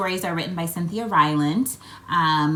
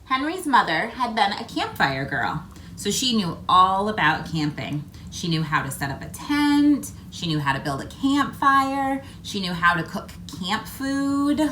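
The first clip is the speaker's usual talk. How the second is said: put-on lively read-aloud for young children; story narration. A narrator's reading. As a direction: tell it like a picture book to kids. Reads picture book aloud.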